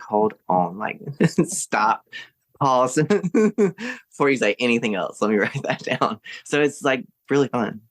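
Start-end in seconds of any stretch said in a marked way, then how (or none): 0.0-6.2 retold quote broken by laughs; laughing excitement. Guest retelling how she asked grandma to wait, laughing. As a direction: laugh through it while asking her to stop. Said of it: "And I was like".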